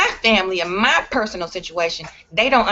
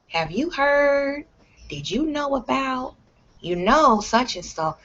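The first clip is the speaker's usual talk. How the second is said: higher, slow, nosy relative; mock gossip; 5 semitones higher, slower than usual. Relatives pulling her into gossip, a nosy mock voice. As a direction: lean in like a busybody.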